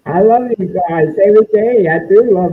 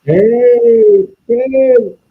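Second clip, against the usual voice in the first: underwater; 4 dB louder than usual. Real, not acted. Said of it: "Why do you sound like you're underwater?".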